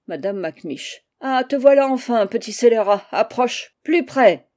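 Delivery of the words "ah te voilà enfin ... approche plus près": put-on loud, furious call to a naughty boy; angry summons. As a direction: bark at him to come closer. (appel furieux et fort)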